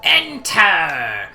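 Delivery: loud, punchy command call; shouted command. Acted. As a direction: bark the command out.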